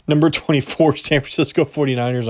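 giggling through the team name; cracking up at himself mid-ranking; laughing. Real, not acted. Host breaks up laughing while announcing the next team, laughing. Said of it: "I don't know why I'm laughing at myself".

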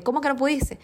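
sorpresa incrédula. Retold or imitated. Nutricionista incrédula.

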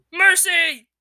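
high, loud gasped cry; loud high gasping plea. Acted. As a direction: gasp it out pinned down. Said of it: "he gasped".

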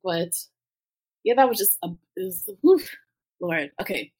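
real tears, laughing and exhaling through them; tearful. Real, not acted. Guest overwhelmed by the memory, tearfully composing themselves. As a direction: let the tears come while trying to regain composure. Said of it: "just have to let some tears".

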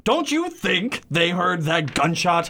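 high, frantic husband voice; panicked Ernest. Acted. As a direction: squeal it out in horror. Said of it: "read for Ernest".

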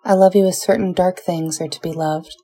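tender, measured poetry recital; poem reading. Acted. Reads Neruda love sonnet.

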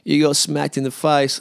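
high, mock taunting ha-ha-ha; mocking laugh. Houseguest points at swollen face, mocking laugh. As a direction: imitate a mate jeering with laughter. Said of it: "he just points to me and goes".

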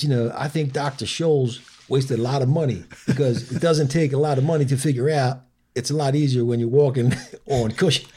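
comic cadence, breaking into a chuckle; Mitch Hedberg. Retold or imitated. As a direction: lightly imitate a stand-up comic. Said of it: "The way you're delivering that is exactly".

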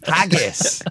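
a bad English accent, yelled for laughs; mock English accent. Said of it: "doing an English accent".

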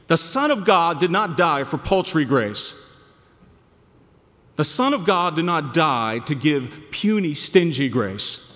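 loud, each phrase hammered; fervent preaching. Real, not acted. Preacher insisting on God's grace, loud and fervent. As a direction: drive it home with force.

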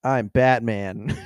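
slow, unrasped announcement; undisguised hero voice. Retold or imitated. Co-host mocking an alternative hero voice, slow delivery. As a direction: state it slowly without any growl. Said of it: "it's better than being like".

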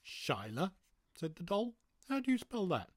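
high doll voice; squeaky little toy voice; talking doll. Acted. Doll asks how to spell.

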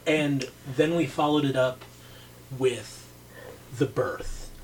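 low quality audio. Real, not acted. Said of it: "apologize about the audio quality".

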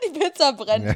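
giggling at the burning pizza; laughing. Real, not acted. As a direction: crack up while saying it. Repeating the joke, laughing.

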